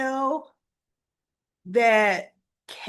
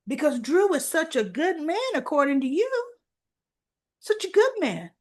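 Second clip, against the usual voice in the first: lightly sarcastic praise, pitched up at the end; mock admiration; 4 semitones higher, faster than usual. Real, not acted. Viewer chiding Kai over his good opinion of Drew, sarcastic. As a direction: throw the praise back, higher on the repeat. Mocking a character's faith in Drew.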